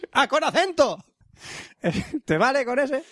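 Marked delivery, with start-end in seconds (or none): 0.1-1.0 high, emphatic joke exclamation; playful raised-pitch demonstration; mock accented A. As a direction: blurt it out high, showing off. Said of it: "yo tengo un buen acento".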